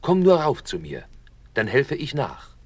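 mild witch scolding. Acted. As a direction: chide her like a stupid goose. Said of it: "schalt die Hexe".

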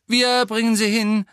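high, loud volunteering; urgent offer. A narrator's reading. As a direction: call it out urgently. Fred calls out urgently.

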